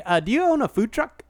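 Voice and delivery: mock hesitant lead-in to a question; hesitant imitation. Host mimics co-host's botched prank call, hesitant. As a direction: stumble into the question with an "uh". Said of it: "You were like".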